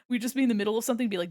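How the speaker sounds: ordinary talk, nothing marked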